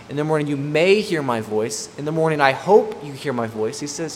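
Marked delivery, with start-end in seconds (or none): 0.1-1.9 "may" raised and pushed, as a doubtful alternative; stress on "may". Shown as a demonstration. Preacher rejecting a weaker wording, stress on "may". Contrasting wrong wordings with the verse. 2.0-3.8 "hope" pushed louder, as the wrong reading; stress on "hope". Shown as a demonstration. Preacher showing what David doesn't say, stress on "hope". Contrasting wrong wordings with the verse.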